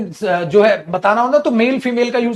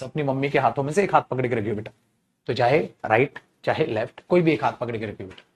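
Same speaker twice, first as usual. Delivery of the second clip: mother's instruction; 7 semitones lower, 8 dB quieter than usual. Retold or imitated. Teacher voices mother to child.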